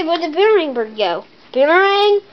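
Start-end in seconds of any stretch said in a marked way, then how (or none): 1.5-2.2 sing-song call of the name. Pretend. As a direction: call out searching for the bird. Calling the missing bird.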